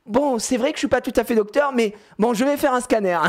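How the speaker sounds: put-on high, sweet little-girl voice; imitating his daughter. Dad voicing his daughter as the pretend doctor, high and childlike. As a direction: mimic a small girl admitting with a shrug. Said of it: "Elle fait".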